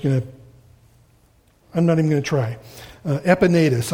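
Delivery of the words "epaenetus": Epaenetus said as eh-puh-NAY-tus, stress on the third syllable; unsure pronunciation. Shown as a demonstration. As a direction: try the name Epaenetus with a careful, hesitant guess. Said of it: "I know that's not correct".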